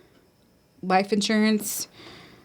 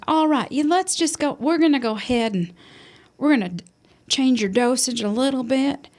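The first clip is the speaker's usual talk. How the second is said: mock Southern accent, pitched higher; light Southern accent, higher voice; Southern doctor impression; 4 semitones higher than usual. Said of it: "she's got this really great Southern accent".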